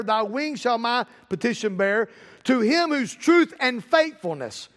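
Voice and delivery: slow, measured poetic recital; hymn recitation. Acted.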